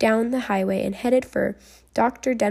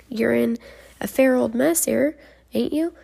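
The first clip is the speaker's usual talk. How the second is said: loud, raised rustic carter complaining; gruff carter; 2 semitones higher, 4 dB louder than usual. Acted. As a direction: scold them like a stubborn country carter. Egg carter scolds stuck motorist.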